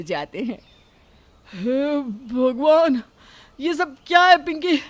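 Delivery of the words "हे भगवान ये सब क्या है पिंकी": louder, exasperated demand; you can't believe what she did to your laptop; angry outburst. Acted. Husband Ajay confronting Pinki over the laptop, angry.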